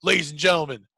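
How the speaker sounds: big announcer build, ending loud; hyped-up stage introduction; concert announcer. Retold or imitated. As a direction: build it up like an arena MC.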